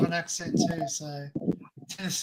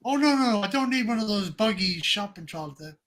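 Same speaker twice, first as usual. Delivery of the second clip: imitating American lady; 3 semitones higher than usual. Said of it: "She says".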